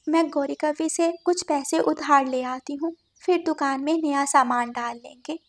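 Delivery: quiet, gentle bird mother; soft mother bird. Acted. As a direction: speak softly like a caring mother bird. Mother bird reassures daughter.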